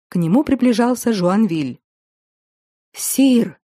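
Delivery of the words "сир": breathless gasp of a call; out of breath from running. Acted. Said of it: "запыхавшись". (запыхавшись)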